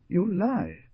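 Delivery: high, angry snarl; a hard, furious denial. Acted. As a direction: spit the accusation back. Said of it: "snarled Stepp".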